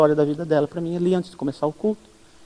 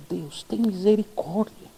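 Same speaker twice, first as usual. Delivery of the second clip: much softer, slow murmured plea; hushed prayer; 10 dB quieter, slower than usual. Retold or imitated. Pastor praying over the troubled woman, much softer and slow.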